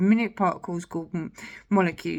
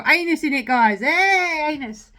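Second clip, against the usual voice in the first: high, loud giggly delight; tickled by the rude word; giddy; 7 semitones higher, 6 dB louder than usual. Real, not acted. Pointing out a rude word to viewers, giggling and high.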